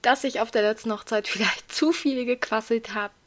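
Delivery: hoarse, strained voice after a wedding. Real, not acted. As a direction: speak with a worn-out, hoarse throat. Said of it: "Ich höre mich heute etwas heiser an".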